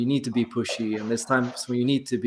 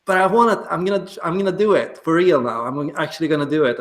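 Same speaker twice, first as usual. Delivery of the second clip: higher and louder, fired-up vow; rising to a dare, eager; determined excitement; 5 semitones higher, 4 dB louder, faster than usual. Retold or imitated. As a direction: declare it like you're accepting a dare. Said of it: "then you gotta be like".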